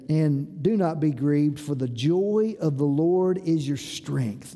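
slow, low-pitched scripture reading; low, measured reading. Acted. Preacher reads the verse to congregation, low and measured. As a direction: read the verse low and unhurried. Verse read, then repeated for emphasis.

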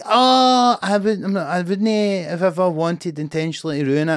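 high, pleading mock of hecklers; lightly voiced whining heckler; mock whiny excuse. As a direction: hecklers apologising, mildly mocked whine.

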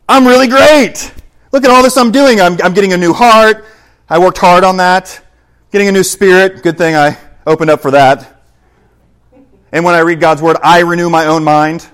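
loud, high, self-congratulating mock voice; mock boasting. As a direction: crow about your own efforts, loud and high. Mock self-congratulating believer taking credit.

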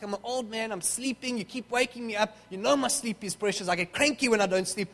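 lightly acted grumpy old man; mild mock irritation, building in volume; tense, cranky. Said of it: "Eli starts getting a bit tense".

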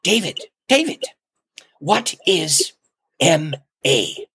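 lightly imitated Ugandan accent, words set apart by pauses. Visiting bishop questioning the speaker from the pulpit, imitated Ugandan accent. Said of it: "in his accent, I don't want to make fun of".

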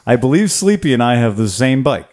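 lightly hammed-up accent, words slurred together; put-on punk-band-style accent. Host reading a listener's bike email, in a put-on accent. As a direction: read it out in a mock slurred accent. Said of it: "I gotta do the accent thing".

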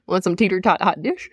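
put-on a half-hearted try at a Minnesota accent; lightly put-on Minnesota twang; a mild Minnesota accent tossed off; weak Minnesota accent. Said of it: "That was not good enough".

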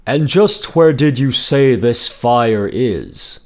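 Wolf. Acted. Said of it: "said Wolf".

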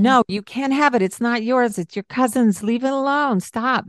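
mock scolding parent fending off a toddler; knee-jerk snap. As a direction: snap at the kid on reflex. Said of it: "that knee-jerk boom".

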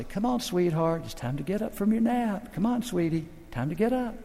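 soft, gentle waking a grandchild; tender grandpa. Retold or imitated. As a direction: coax a sleepy little girl softly. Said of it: "like me going to my little granddaughter".

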